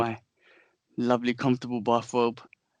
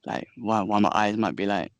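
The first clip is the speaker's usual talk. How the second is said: jet lagged; 2 semitones lower than usual. Real, not acted. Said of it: "I'm jet lagged".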